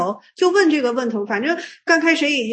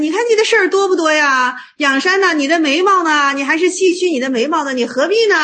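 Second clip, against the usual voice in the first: higher-pitched, acted-out reproach; mock scolding; 4 semitones higher, 3 dB louder than usual. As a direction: chide him with exasperated rhetorical questions. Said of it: "袁悟克勤就批评仰山".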